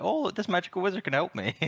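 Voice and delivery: high-pitched mock naivety; Dorothy. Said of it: "She's just absolutely taking them along for this ride".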